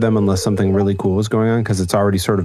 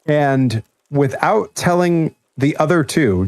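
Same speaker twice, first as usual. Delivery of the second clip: ordinary delivery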